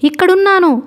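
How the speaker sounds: narrator's contained shout; mock shout. A narrator's reading. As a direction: call back high to a searcher. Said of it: "అరుస్తూ చెప్పింది".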